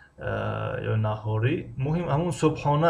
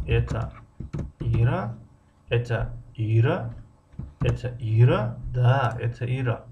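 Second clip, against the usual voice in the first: slow model phrase; slower than usual. Shown as a demonstration. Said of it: "Савол чӣ хел аст?".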